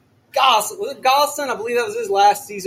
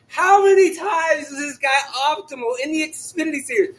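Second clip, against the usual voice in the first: shouting; 4 semitones higher than usual. Real, not acted. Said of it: "if I'm shouting".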